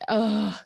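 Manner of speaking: mimed relieved exhale; sigh of relief. Retold or imitated. Mother recalling being understood by birth grandma, relieved sigh. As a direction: let out a small, retold sigh of relief. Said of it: "a bit of a sigh of relief".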